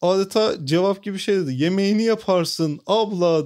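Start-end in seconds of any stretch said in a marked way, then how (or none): 1.5-3.5 imitating vendor's call. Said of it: "diye bağırdı".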